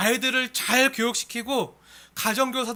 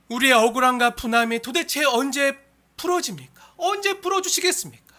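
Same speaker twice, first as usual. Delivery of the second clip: crying out; 2 semitones higher, 5 dB louder than usual. Acted. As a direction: implore God for justice, pitch rising. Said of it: "부르짖는 소리에". (억울함을 부르짖듯)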